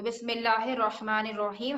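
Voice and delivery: "बिस्मिल्लाहिर्रहमानिर्रहीम" with heavy rounded "ro" and throaty h; correct Arabic articulation. Shown as a demonstration. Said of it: "अगर हम यहाँ पर सही पढ़ेंगे हरफे हा".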